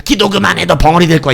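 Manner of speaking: loud mock yell into an ear; shouted threat. Preacher doubting fellow praying youths would say it, mock shouted threat. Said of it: "내 귀에다 대고".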